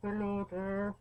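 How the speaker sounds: buzzy voice through a kazoo; talking into kazoo. Shown as a demonstration. Player testing how a kazoo works, buzzing kazoo voice. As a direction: hum the words into a kazoo. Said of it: "You have to actually talk into it".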